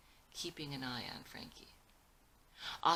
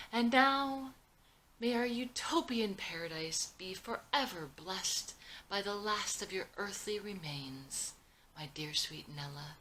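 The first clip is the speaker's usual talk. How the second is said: grand proclamation; 5 semitones higher, 4 dB louder than usual. Acted. Proclaiming at a public ceremony.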